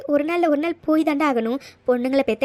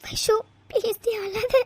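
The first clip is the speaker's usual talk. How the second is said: slow, high, tearful begging; weepy and drawn out; crying plea; 7 semitones higher, slower than usual. Acted. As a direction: beg her through your own tears. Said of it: "நீ எதுக்குடி அழற".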